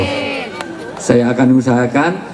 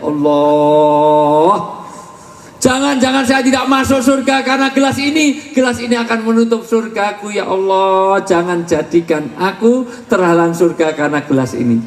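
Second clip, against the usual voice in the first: mock crying prayer; 5 semitones higher than usual. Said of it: "nangis sejadi-jadinya".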